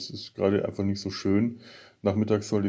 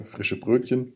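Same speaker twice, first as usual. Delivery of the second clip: choking on a drink; 4 semitones higher, slower than usual. Real, not acted. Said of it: "ich hab mich verschluckt".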